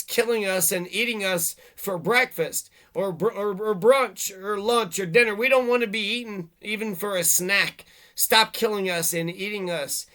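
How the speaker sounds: mock exasperated demand. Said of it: "and they said".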